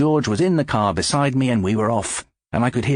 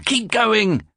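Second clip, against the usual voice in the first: much higher call to keep going; urgent shout; 13 semitones higher than usual. Acted. George urges the driver on, shouting. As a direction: push the driver on. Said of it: "George shouted".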